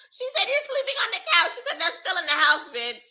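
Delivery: high, squeaky voice breaking into laughter; tickled retelling. Real, not acted. Reactor repeating the couch comeback, high and laughing. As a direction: tell it while cracking up.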